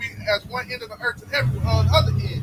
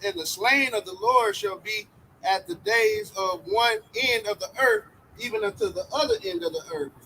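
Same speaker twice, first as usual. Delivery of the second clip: scripture reading; 2 semitones lower than usual. Acted. Reads scripture aloud.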